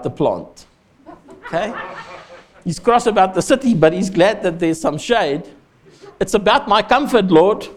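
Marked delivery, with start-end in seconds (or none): 6.2-7.7 mock selfish Jonah. Preacher voicing selfish Jonah.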